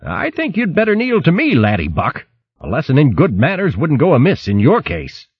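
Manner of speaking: put-on bold old boxer calling out; gruff old hare. Hare threatens the rat.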